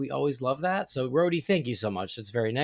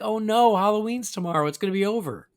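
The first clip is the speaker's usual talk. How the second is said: raised-pitch "oh no" of playful dread; mock dismay; 7 semitones higher, 3 dB louder than usual. Host confessing dread of Halloween ending, mock dismay. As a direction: lament it with hammed-up dismay, starting loud and easing off. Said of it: "instead I'm like".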